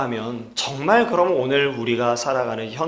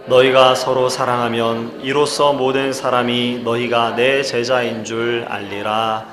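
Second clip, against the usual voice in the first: scripture reading; 6 dB louder than usual. Acted. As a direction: lead the congregation in reciting the verse. Reads final verse with congregation. (회중과 함께 성경을 낭독하는 어조)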